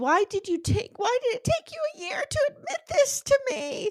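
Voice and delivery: mock very high sobbing wail, crying out. Recounting to a co-host what Megan says to Juan, imitating Megan sobbing. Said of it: "So Megan sobs".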